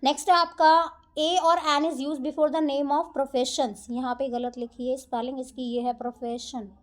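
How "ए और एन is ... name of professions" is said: reads the rule out word by word, very slow; slow rule reading. Acted. Teacher reading the rule to her students, slow dictation. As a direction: dictate it slowly to the class.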